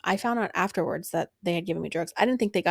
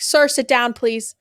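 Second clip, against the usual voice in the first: retold scolding; 3 semitones higher, 7 dB louder, slower than usual. OR staff scolding husband.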